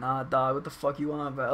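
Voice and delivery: casual, relaxed everyday way of talking. Imitating another friend, showing how he talks. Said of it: "he just kinda talks like that".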